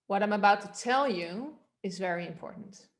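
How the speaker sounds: "tell you" swooping up as the focus; stress on TELL YOU. Shown as a demonstration. Coach letting the class hear it, stressed "tell you". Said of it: "Now change it to "tell you".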